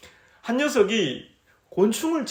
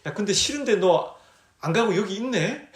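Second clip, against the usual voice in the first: laughing while teasing. Retold or imitated. Teacher teases the bug-hating boy, laughing as he speaks. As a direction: chuckle through the words as you tease. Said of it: "씨 웃으면서".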